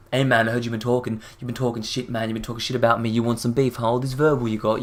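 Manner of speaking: mock aggressive confrontation at near-normal volume. Commentator acting out prankster accusing a stranger, mildly aggressive. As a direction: imitate a prankster picking a fight. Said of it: "He aggressively goes up to people".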